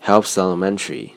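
"helps elementary" run together, with the p held closed before the s; linked helps elementary. Shown as a demonstration. Teacher demonstrating linking for students, smooth linking. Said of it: "非常清楚的连读".

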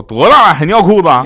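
loud, high mock telling-off; scolding father. Father to child with wet trousers, scolding. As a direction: shout it like an outraged dad.

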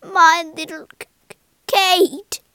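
high, loud stammering wail; very upset. A narrator's reading. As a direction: wail brokenly like a distraught mother. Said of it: "Missus Crum was very upset".

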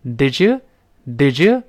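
"did you" run together with a clear j in the middle; slow demo of "did you", middle j clear, you weakened; linked did you. Shown as a demonstration. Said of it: "中间这个j是特别清楚的".

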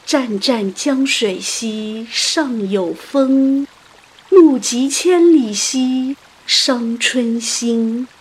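slow, stretched classical verse; elegiac recitation. A narrator's reading. Mourners' verse for the soul, slow elegiac recitation. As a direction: linger on the end of each line.

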